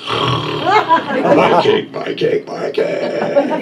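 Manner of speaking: high, loud clutching whine over the cake; whining wife. Retold or imitated. Wife caught with cake whines at her husband. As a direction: wail it like a guarded treasure.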